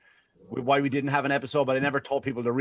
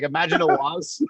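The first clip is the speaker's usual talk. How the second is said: ordinary talk, nothing marked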